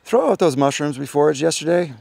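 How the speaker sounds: calling out. Acted. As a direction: shout an instruction after someone leaving. Calling order after departing scout.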